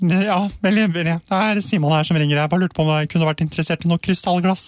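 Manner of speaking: put-on high teenage voice cracking and breaking mid-change. Recalling his summer telemarketing job selling crystal glasses, imitating his breaking teenage voice. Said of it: "Med litt sånn stemme".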